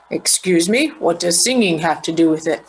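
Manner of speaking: lightly voiced detective, a touch low; puzzled detective querying a clue, mildly played; questioning detective.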